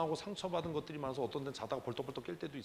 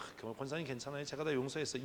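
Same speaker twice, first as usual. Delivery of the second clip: fake forgiveness; 4 dB quieter than usual. Shown as a demonstration. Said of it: "이렇게 하니까 그 사람이 또".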